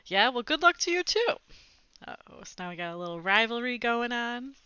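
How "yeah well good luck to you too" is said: defiant retort. Acted. Rob's retort.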